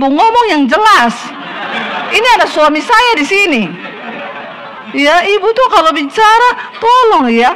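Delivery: a churchwoman bristling at gossip, mock indignant; indignant woman. Woman protesting to the preacher.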